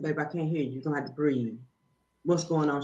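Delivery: low, soft calming voice; acted soothing. Woman retells calming a hollering little girl, soothing. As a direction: gently settle a child down.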